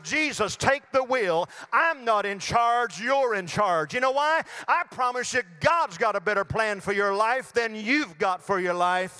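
emphatic sermon delivery, punching key words; forceful preaching. Real, not acted. Preacher urging listeners to hand over control, forceful preaching. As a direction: drive the appeal home from the pulpit.

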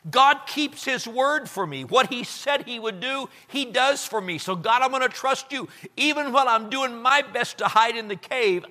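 high, emphatic profession of trust; proud declaration. Acted. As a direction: proclaim it proudly, easing down at the end. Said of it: "David said it proudly".

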